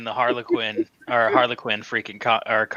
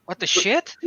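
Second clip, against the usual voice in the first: stunned villain; 8 semitones higher than usual. Retold or imitated. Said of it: "He's just sitting there like".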